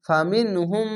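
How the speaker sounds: ফামিনহুম with the mim nasal hum held; chanted ফামিনহুম; tajweed recitation. Shown as a demonstration. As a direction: recite ফামিনহুম, holding the গুণনা. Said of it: "ইদগামে মিম সাকিন গুণনা".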